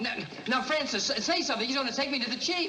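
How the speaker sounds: high anxious pleading; desperate plea. Acted. Pleading with the mule.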